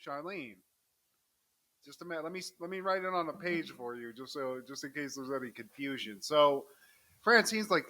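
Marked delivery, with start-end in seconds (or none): 0.0-6.2 very soft, understated aside; hushed confirming. Acted. Writing the culprit's name down for someone, quietly. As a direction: say it quietly, as if noting it down.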